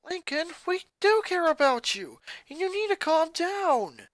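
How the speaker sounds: concerned. Acted. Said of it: "showing genuine concern".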